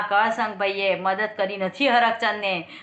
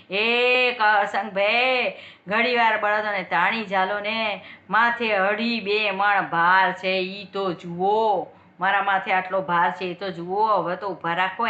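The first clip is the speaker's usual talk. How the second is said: calling out; 3 semitones lower, slower than usual. Acted. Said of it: "શેઠે રાડ ને પાડી".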